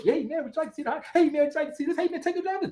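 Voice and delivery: high-pitched, eager sales pester; pushy salesman. Acted. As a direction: imitate an insistent car salesman. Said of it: "the salesman just a little push".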